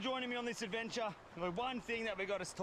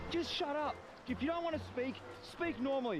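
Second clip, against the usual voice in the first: higher, fed-up telling-off; exasperated self-scolding; 4 semitones higher than usual. Real, not acted. Man tells himself to speak normally, exasperated. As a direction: scold yourself for fumbling the words.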